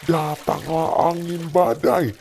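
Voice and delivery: put-on gentle storytelling voice for a child; bedtime story narration. Father tells Bible story at bedtime.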